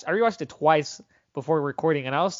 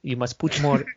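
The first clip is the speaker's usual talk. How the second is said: slow, quiet martial arts master; a hint of a stern kung fu teacher; Bruce Lee impression; 3 dB quieter, slower than usual. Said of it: "this makes me into character".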